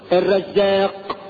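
slow "الرزاق" with long aa and full final q; correct pronunciation. Shown as a demonstration. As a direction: draw out "الرزاق" and release the ق. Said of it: "بمنطوقه الصحيح".

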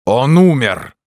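shout. A narrator's reading. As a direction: hurl the news at her with a shout. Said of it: "закричал священник". (священник выкрикивает, что Феб умер)

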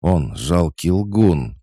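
barely holding in her rage; furious, slow and loud; angry growl. Acted. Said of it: "прорычала раскрасневшаяся Сонька".

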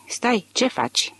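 high, slow mock cry of alarm; a lightly acted alarmed shout to her husband. A narrator's reading. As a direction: call out to stop him, drawn out high. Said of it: "striga ea".

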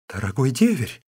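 a mild, lightly voiced exclamation; the sister-in-law crying out to her brother-in-law, understated. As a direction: call out to him with only a touch of alarm. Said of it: "воскликнула невестка".

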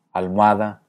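ALMOHADA with O gliding into A; diphthong. Shown as a demonstration. Teacher offers the second option, almohada as diphthong. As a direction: squeeze almohada into three syllables. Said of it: "hacer diptongos manteniendo la calidad".

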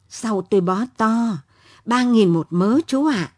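lightly voiced old woman, pleased; a hint of a grateful old seller; glad old woman. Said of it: "Bà cụ vui mừng đáp".

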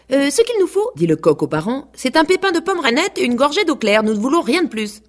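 high, proud rooster voice. A narrator's reading. Rooster demanding his seed from the parents, high and proud. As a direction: crow out the demand.

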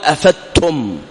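أفدتم said with د in place of ض; wrong merged reading. Shown as a demonstration. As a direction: soften the ض of أفضتم into a د. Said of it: "فيقول".

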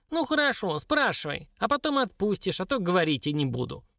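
high, squeaky dwarf voice; high-pitched, reluctant little creature; grumpy dwarf. Acted. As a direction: give in grudgingly in a little imp's voice.

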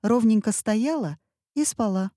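ordinary delivery

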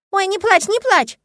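put-on a small girl hurrying to comfort a grown-up; hasty little girl. A narrator's reading. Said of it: "поспешно проговорила Лия".

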